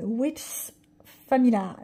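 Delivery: French-accented English, hesitant; self-conscious English accent. Real, not acted. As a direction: stumble over the English title. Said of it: "mais alors mon accent, ça fait peur". (accent anglais hésitant)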